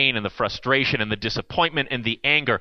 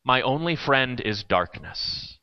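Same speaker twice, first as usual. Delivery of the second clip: anguished lament; 6 semitones higher than usual. Acted. Reading anguished psalm.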